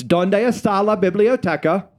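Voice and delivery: "Donde está la biblioteca?" in schoolbook Spanish; Spanish phrase. Shown as a demonstration. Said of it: "I pronounced that perfectly".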